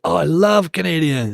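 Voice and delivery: imitated gushing stranger. Street stranger flattering Canadian tourists, drawn-out imitated delight.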